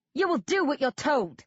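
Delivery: high, piercing screeched order. A narrator's reading. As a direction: screech the command at him. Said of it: "Vicky Wedge screeches".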